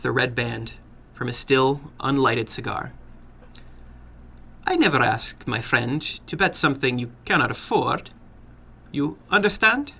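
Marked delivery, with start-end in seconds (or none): 4.7-9.9 put-on sly older gentleman with an accent; probing the boy, a touch sly; foreign little man. Narrator voices the little man.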